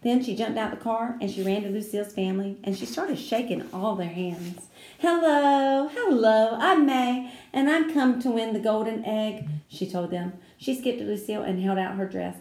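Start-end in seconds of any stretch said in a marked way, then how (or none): 5.0-9.5 put-on eager little girl. A narrator's reading. May greeting the family eagerly.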